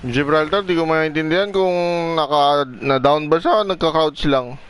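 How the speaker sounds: loud, puzzled recap; loud confused. Real, not acted. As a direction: raise the voice in confusion. Confused recap after fight.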